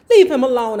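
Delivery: loud cry to leave him alone; shouted plea. Acted. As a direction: shout to stop the father. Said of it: "I shouted".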